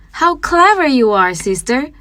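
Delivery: high, excited praise; delighted little brother, pitched high; admiring. A narrator's reading. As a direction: gush over her cleverness. Hansel praises Gretel.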